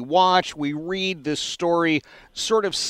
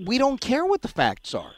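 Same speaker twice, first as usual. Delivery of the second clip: higher-pitched, emphatic imitation of stubborn dismissal; mock defiant attitude; 5 semitones higher than usual. Host voicing the demonstrators' attitude, mock defiance. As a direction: voice their refusal to listen, lightly acted. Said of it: "take the attitude that".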